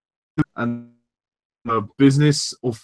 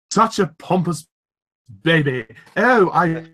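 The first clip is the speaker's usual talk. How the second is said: Stewie; 3 semitones higher, slower than usual. Retold or imitated. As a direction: imitate a haughty talking baby, pitched up. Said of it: "like Stewie, you're like".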